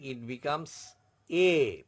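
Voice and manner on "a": "A" said as a long "ay" sound; French accented E. Shown as a demonstration. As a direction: draw out "A" as the sound of é. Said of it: "pronunciation becomes A".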